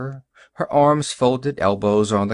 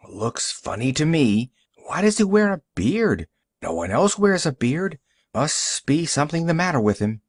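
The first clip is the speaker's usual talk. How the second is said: higher-pitched, mildly disapproving gossip; a hint of a wary busybody, pitched up; lightly voiced suspicious customer; 4 semitones higher than usual. Customer tells shopkeeper the bearded man looks funny, lightly suspicious.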